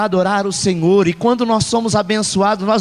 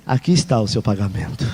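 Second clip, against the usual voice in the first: gentle grace; 10 semitones lower than usual. Shown as a demonstration. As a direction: hand it over like a free gift. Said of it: "Graça é mesmo que você não fez".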